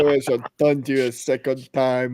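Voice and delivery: mock French taunting accent. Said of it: "you gotta do the French accent".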